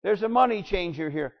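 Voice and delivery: a hint of a meek, apologetic doorman; mock polite request. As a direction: play it as a timid, polite usher. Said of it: "it doesn't read this way".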